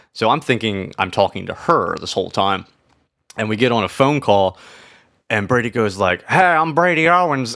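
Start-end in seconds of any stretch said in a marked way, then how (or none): 6.3-7.6 terrible put-on Texan accent, pitched up. Retelling a phone call greeting, terrible Brady Owens Texan impression. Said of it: "that's a terrible impression of him. Well, it's what everyone from Texas sounds like".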